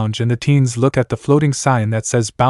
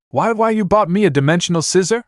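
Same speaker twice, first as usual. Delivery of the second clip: excited; 8 semitones higher than usual. A narrator's reading. Star overwhelmed by the gift.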